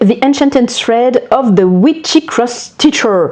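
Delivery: French speaker hamming up an English accent; exagerated English accent. Shown as a demonstration. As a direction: say the English title with a put-on English accent. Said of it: "avec mon meilleur accent anglais". (avec un accent anglais exagéré, pas du tout naturel)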